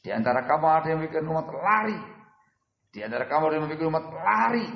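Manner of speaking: a hint of a stern warning; mild retold anger. Preacher quotes the Prophet rebuking the companions, mildly stern. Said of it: "Nadanya tinggi dan marah".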